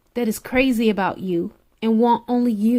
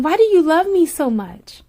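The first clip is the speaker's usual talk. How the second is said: a little higher, asking him in wonder; half-scared question, slightly raised; anxious disbelieving plea; 5 semitones higher, 3 dB louder than usual. Retold or imitated. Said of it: "how I was just scared and how I would ask him".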